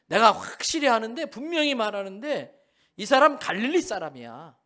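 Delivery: loud, certain accusation; insistent accuser. Acted. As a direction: declare it like undeniable proof. Man insists Peter is Galilean. (베드로를 고발하는 사람, 크고 단호하게)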